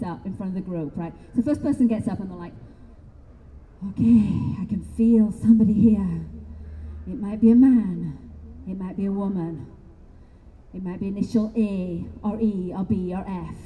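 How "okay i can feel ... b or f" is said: mock psychic reading. First person performs a reading.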